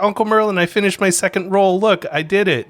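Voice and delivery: put-on high, loud, eager small boy; proud excited kid. Nephew proudly shows uncle his opened film roll, excited. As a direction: show off proudly.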